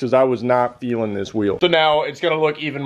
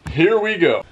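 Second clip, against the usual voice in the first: news anchor delivery; newscaster voice; 2 semitones higher than usual. Pretend. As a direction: read it like the evening news. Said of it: "That was my newscaster voice".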